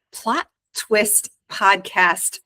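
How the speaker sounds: said slowly and carefully. Shown as a demonstration. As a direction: spell out each word slowly. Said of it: "see if you can say that three times fast".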